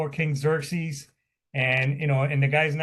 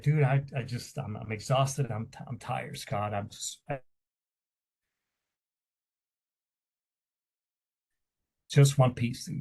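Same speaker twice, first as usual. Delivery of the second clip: exhausted and crying; 2 semitones lower, 3 dB quieter than usual. Retold or imitated. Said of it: "and I was just crying".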